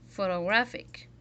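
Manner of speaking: "Photographic" stressed on "graph"; "Photographic", third syllable strong, the rest lighter; one accented syllable. Shown as a demonstration. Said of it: "we accentuate one syllable".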